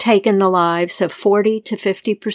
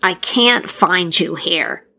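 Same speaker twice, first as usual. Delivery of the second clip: disappointed; slower than usual. A narrator's reading. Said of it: "she replied, disappointed".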